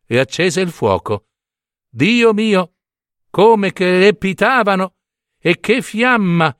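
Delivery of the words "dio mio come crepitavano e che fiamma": proud excitement. Acted. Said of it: "pensavano i fiammiferi".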